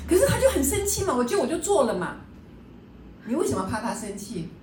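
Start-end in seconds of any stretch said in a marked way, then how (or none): 0.1-2.1 mock whine in a much higher voice, every line dragging on 嘛; whiny complaining. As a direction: imitate a sulky pushover whining about being made to work. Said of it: "很多人常常说".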